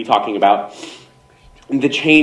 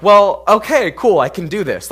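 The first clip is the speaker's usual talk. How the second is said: retold enthusiasm; 9 semitones higher, 5 dB louder than usual. Acts out being won over.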